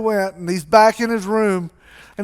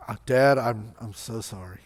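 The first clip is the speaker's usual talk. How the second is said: low, very soft, stammered sorry; acted remorse, low and halting; sheepish apology; 9 semitones lower, 8 dB quieter than usual. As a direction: shrink into a hushed apology. Son rehearsing a humble apology.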